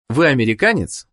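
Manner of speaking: ordinary talk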